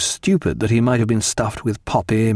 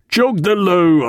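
higher, slow, drawn-out shouted order; louder cry; 7 semitones higher, 4 dB louder, slower than usual. A narrator's reading. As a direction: repeat the order forcefully, stretching each word. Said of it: "and then louder".

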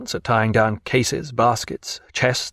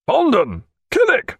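calling out. A narrator's reading. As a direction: call the men from below. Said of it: "called Jack".

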